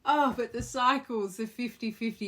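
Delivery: loud high surprise; surprised exclamation. Real, not acted. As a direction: react sharply to a card. Card reveal reaction.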